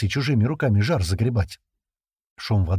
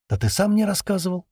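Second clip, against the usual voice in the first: cool; 10 semitones higher than usual. A narrator's reading. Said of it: "хладнокровно заметила Ленка".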